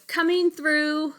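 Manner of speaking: high, slow, loud stomping teacher; Miss Kirby monster voice. Acted. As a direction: bellow her way through. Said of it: "she says".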